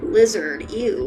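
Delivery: usual speaking voice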